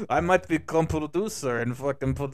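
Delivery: light mock Russian accent; Russian-accented Jesus. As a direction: try a slight fake Russian accent. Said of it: "why am I giving Jesus a Russian accent".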